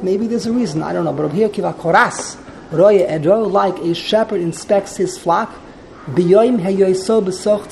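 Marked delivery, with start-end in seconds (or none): 1.5-2.4 "Kiva Koras" with emphasis on the final "ras"; end-stressed "Kiva Koras"; stress on last syllable. Shown as a demonstration. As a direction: lean on the resh in "Koras". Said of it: "correct emphasis should be on the resh".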